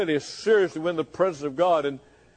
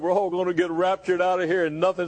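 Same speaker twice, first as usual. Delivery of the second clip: mock reassurance. Voicing a complacent churchgoer answering preacher.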